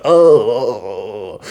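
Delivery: drawn-out mock groan; hammed-up "oh" groan; imitated moan. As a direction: moan like someone knocked out. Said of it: "hear Mikey moans like".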